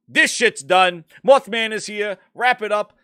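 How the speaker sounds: loud, high mock declaration; loud retort. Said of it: "I'm like".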